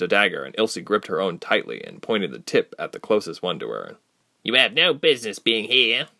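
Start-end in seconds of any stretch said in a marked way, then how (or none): 4.4-6.1 warned. Acted. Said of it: "the elf with red spikes warned".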